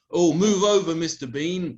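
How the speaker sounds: hammed-up proud announcement of his own fame; a cocky, sarcastic sales pitch; mock showbiz boast.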